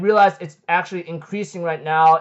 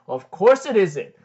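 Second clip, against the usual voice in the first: lightly lowered voice of a retold character; deep voice; 3 semitones lower, 3 dB quieter than usual. Mystery owner of the axe answers, slightly deepened voice. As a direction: drop a little deeper, measured and unhurried. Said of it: "we hear a deep voice".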